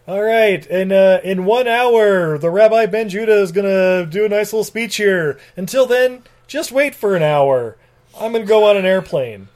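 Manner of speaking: lightly put-on bad foreign accent; Nikolai's horrible accent. Nikolai introducing the rabbi's speech, mildly mocked accent. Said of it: "in his horrible accent".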